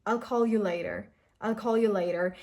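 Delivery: "I'll call you later" said flat and calm, falling at the end; falling statement. Shown as a demonstration. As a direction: say it simply as a fact. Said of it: "if you're just giving a statement".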